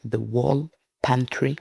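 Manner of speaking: drawn-out "The Wall Pantry", pause before "Pantry", French accent; French-accented English. Real, not acted. YouTuber retrying an English title, slow French-accented "The Wall Pantry". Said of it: "cet accent malmené".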